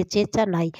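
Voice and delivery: चेचा नाई with "ch" where चेष्टा has "sht"; simplify चेष्टा to a childlike चेचा; imitating toddler's mispronunciation. Mother showing how her child says it, baby-talk चेचा. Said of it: "मतलब, ऐसे बोलती इतना ही है".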